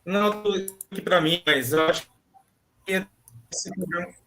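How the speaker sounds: choppy call audio breaking up; glitchy robotic call. Real, not acted. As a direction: voice cutting in and out on a bad line. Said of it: "a sua voz tá picotando".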